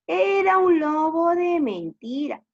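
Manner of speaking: high, loud storybook character voice; gleeful prankster. Acted. Shepherd tells villagers it was fake, gloating. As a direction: crow over the prank. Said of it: "se echó a reír y decía".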